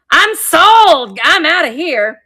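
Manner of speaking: high, bright little-doll squeal; cute figurine voice. Pretend. Seller voices the sold angel, high and giddy. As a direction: make the sold angel cheer as she leaves.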